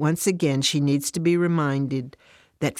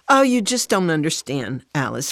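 angry; 3 dB louder than usual. Acted. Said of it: "Fran is so angry".

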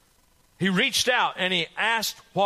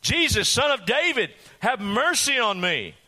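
desperate cry; 6 semitones higher than usual. Acted. Blind beggar calls to Jesus over the crowd, desperate cry. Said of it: "no way this blind man's going to shut up".

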